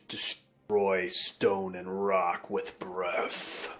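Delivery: slow, low giant voice; a heavy warning, slowing at the end. Acted. Giant warning of ancient dragons, low and slow.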